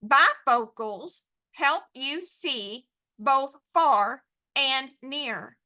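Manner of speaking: "Bifocals help you see" very slow, word by word; counting out words. Shown as a demonstration. Teacher counting words with students, slow and separated. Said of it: "Let's count those words".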